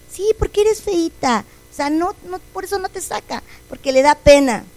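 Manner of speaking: lightly voiced spiteful person; cruel taunt. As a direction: talk down to a child. Person mocking her as ugly.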